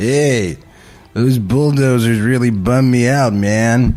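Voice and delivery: put-on hip beat-generation beatnik accent. Improvising a bit with friends, playing a character in a beatnik accent. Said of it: "that's my beatnik accent".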